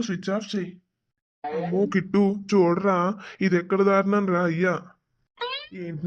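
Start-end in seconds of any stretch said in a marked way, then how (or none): 1.4-4.8 loud alarmed cry, voice jumping up; alarmed outcry. Acted. Father shocked by the threat message, loud alarmed cry. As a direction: blurt it out in shock at the screen.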